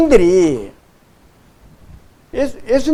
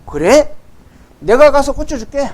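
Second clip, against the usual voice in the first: higher-pitched, everyday conversational paraphrase; instant casual agreement; 5 semitones higher, 3 dB louder than usual. Retold or imitated. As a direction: agree on the spot, informally. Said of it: "예수님이 그 말씀을 듣자마자".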